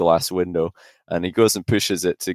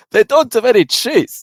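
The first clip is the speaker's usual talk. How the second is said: much higher, louder, dumbfounded report; hammed-up dismay that there is no cheese; mock baffled friend; 7 dB louder than usual. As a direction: play the clueless friend stunned by the news.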